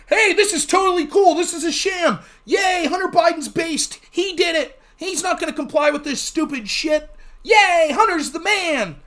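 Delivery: hammed-up fan cheering; mock cheering Democrats. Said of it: "the Democrats would be like".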